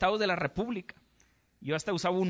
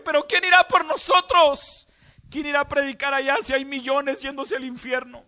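anguished call; 6 semitones higher, 8 dB louder than usual. A narrator's reading. Weeping Jesus calls for missionaries.

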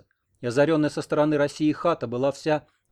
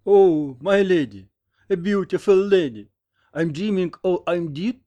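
higher, loud, slow dazed wonder; slightly hoarse voice; 6 semitones higher, 8 dB louder, slower than usual. A narrator's reading. Wounded American wakes to his nurse, slightly hoarse wonder. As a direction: marvel slowly in a slightly husky voice. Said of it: "проговорил хрипловатым голосом".

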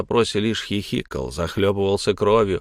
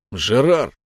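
sharp rebuke; 2 semitones higher, 4 dB louder than usual. Acted. Captain rebukes Gerard.

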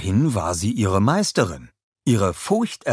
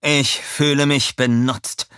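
slow, higher-voiced hurt; sad complaint; 7 semitones higher, 4 dB louder, slower than usual. A narrator's reading. Inventor Herb feeling used, sad complaint. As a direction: draw it out, wounded and sorry. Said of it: "sagte er traurig".

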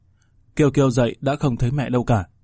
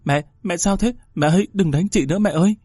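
lightly voiced scared little sister, higher; frightened child; 6 semitones higher than usual. Little sister begging mother to stop hitting, frightened. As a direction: plead in a small frightened voice. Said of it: "sợ quá chạy vào".

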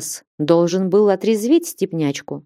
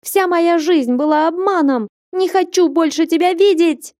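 furious shout; 10 semitones higher than usual. A narrator's reading. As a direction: scream the betrayal out. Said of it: "закричал подросток".

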